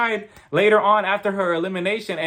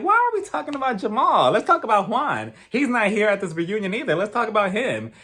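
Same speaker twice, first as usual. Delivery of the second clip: higher-pitched incredulous objection; mock indignation; 6 semitones higher than usual. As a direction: protest the change of topic, playfully put out. Acts out own objection to topic.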